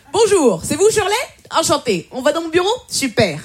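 eager recruiter. Retold or imitated. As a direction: greet her like a keen interviewer. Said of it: "il me convoque".

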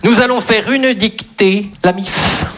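slow, drawn-out classroom dictation; mock-solemn schoolteacher, stretching the syllables; teacher giving dictation. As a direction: read it out slowly for pupils to write down. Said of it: "vous imaginez les dictées".

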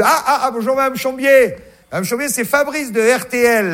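radio host voice. Retold or imitated. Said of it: "Je vais vous la faire".

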